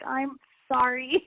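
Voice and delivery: slow, subdued "I'm sorry" with a slight lift at the end; husband's apology. Retold or imitated. Husband apologizing after losing match.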